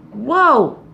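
loud, high mock shock; whoa. Real, not acted. Host reacting to listeners' self-talk, exaggerated whoa. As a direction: exclaim at the bad news.

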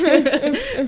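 a quick burst of laughter; real amused laugh; short laugh. Real, not acted. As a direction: laugh out loud briefly. Laughs at the mock example.

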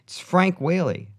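high, loud, drawn-out announcement; mock-eager self-introduction on the phone; pretend phone introduction. Pretend phone call to Macaulay.

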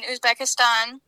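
Uzbekistan ending in an open "stahn"; cool native-like pronunciation. Real, not acted. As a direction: say Uzbekistan with "ah" in the last syllable. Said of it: "how did you say that so coolly?".

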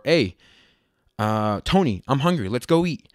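lightly put-on LA accent. Inviting his friend to eat, light LA accent. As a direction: slip a little into LA Latino talk. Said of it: "the L A accent is very prevalent".

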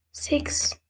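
hushed whisper of the name. Real, not acted. Hiding, calling partner quietly.

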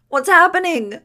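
high, loud, panicked cry; terrified wail. A narrator's reading. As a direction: cry out in frantic confusion. Iggy thrashing in terror under shower.

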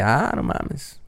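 dry mock surprise; sarcastic surprise. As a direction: toss it off with sarcasm. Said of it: "haciendo ese sarcasmo".

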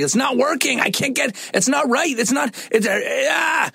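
put-on high, wailing little girl in a sock meltdown; frantic child. Daughter melting down over her socks, a high frantic wail. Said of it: "she's screaming and, like, pounding the floor".

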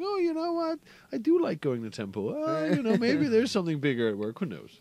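lightly Jewish-inflected voice, pitch swooping up; a hint of a Jewish accent, half playful; slight Jewish accent. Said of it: "Did you just slightly slip into the, the, like, Jewish accent there?".

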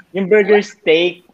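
slow, laughing through the words. Real, not acted. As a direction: chuckle as you drag it out slowly. Laughing through the dish name.

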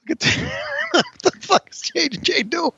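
a high voice breaking into laughter; cracking up at JJ on screen; laughing disbelief. Real, not acted. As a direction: laugh through it, unable to believe what he sees.

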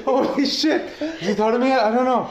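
breathless mock panic over a delayed flight; mock freak-out. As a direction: act out a hammed-up panic. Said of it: "freaking out, going".

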